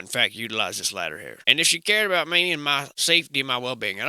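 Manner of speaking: a hint of a crusty old-timer; mock old-timer yarn. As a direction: spin a tall tale as the town veteran. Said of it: "you simply add the old in front of it".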